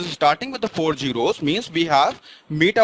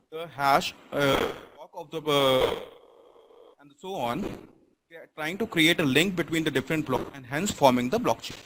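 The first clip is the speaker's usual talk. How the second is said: barely audible; 2 semitones lower, 5 dB quieter than usual. Real, not acted. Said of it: "your voice is very low".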